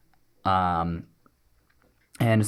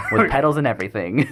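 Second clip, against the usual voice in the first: laughing shout; 6 semitones higher, 6 dB louder than usual. Real, not acted. Laughing at bicycles.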